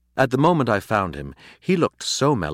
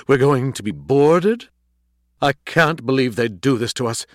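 loud, high, outraged question; appalled disbelief; 5 semitones higher, 6 dB louder than usual. A narrator's reading. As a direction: mellowness suddenly gone, aghast. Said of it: "his mellowness suddenly gone".

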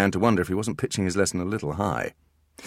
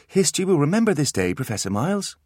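raised dramatic toy phrase; a toy playing mad scientist; toy monkey voice; 10 semitones higher, 3 dB louder than usual. The monkey's voice box addresses Miles, theatrically.

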